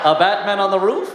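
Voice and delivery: high, loud musical-theatre villain; hammed-up questioning villain voice; Bane as Tevye. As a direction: lilt it up like a jolly stage patriarch. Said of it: "sounds like Tevye from Fiddler on the Roof".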